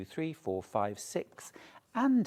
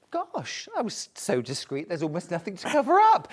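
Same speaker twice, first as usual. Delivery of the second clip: cat's voice; 3 semitones higher than usual. Pretend. Cat's imagined thoughts voiced.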